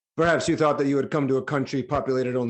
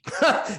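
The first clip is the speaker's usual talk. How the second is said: scornful laugh; 10 semitones higher than usual. Acted. King scoffs at herald's claim.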